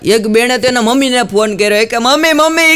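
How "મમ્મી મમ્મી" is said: daughter calling mom. Acted. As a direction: call mummy like an upset young bride. Daughter calls mother on phone.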